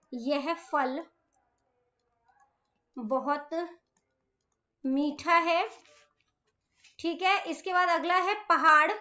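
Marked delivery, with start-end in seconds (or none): 0.1-5.7 slow dictation. Shown as a demonstration. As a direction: pause between words for writing. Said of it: "next है फल".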